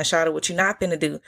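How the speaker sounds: lightly voiced Atlanta slang, quick; Atlanta talk. Shown as a demonstration. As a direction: toss it off in Atlanta country talk. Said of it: "We goddamn talk like this".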